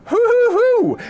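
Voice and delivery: high, loud hammed-up barbarian. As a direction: bellow it like a cartoon barbarian. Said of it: "my attempt at doing a barbarian's voice".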